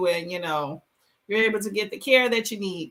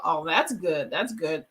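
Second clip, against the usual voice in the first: talking between slurps of tea; slurping tea; 7 semitones lower, 4 dB quieter than usual. Real, not acted. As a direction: slurp the tea while speaking. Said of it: "sorry if I'm slurping".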